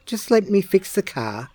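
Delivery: busy big brother. A narrator's reading. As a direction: brush him off while working. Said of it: "said Aaron".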